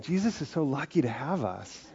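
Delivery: laughing through a smug boast; lightly mocking, with a laugh; playing a self-satisfied believer through laughter. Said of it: "somebody out there saying".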